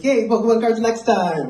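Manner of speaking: put-on a little boy thrilled about cards; cheering kid. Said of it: "He's like".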